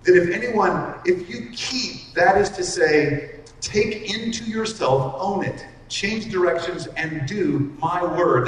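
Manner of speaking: slow and weighty, every phrase pressed home; with emphasis. Acted. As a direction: lean hard on each clause, unhurried. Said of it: "with emphasis".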